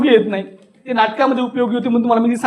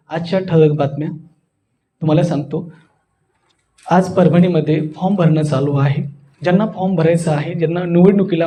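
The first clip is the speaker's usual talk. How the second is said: low, even newsreader drone; monotone news reading; 4 semitones lower than usual. Shown as a demonstration. Speaker reads out today's headlines, monotone newsreader. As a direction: read headlines all on one note. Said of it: "एक सुरी बातम्यासारखं बोलत असेल".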